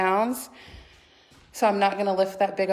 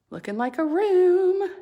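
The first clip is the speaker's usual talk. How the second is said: excited; 12 semitones higher, 6 dB louder than usual. Real, not acted. Delighted at daughter's room.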